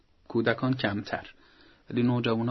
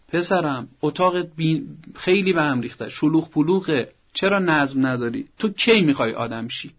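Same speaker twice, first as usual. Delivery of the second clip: a mildly scolding mother, a touch louder; 2 semitones higher, 3 dB louder than usual. Shown as a demonstration. Mother scolding her teenage son over his room, mildly reproachful. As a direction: nag the teen about his messy room. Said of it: "این جملهٔ آخری رو لازم نیست بگید".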